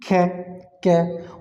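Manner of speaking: isolated ख and क, crisp and unvoiced; unvoiced consonant demo. Shown as a demonstration. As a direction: say ख then क with no voicing in the throat. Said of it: "आप बोलोगे तो आपके अंदर वाइब्रेशन महसूस नहीं होगी".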